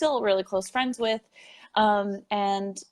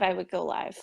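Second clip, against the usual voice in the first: a softer echo of the line; softer repeat; 5 dB quieter than usual. Real, not acted. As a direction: let the repeat drop away quietly. Repeated for emphasis.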